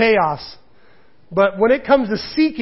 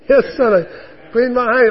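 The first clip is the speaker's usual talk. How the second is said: patient dad; 5 semitones higher, 5 dB louder than usual. Retold or imitated. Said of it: "he'll go through the list".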